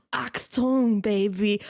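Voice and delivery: German catchphrase with American vowels; mock American accent. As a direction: imitate the American dub, mockingly. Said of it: "Why does he have an American accent?".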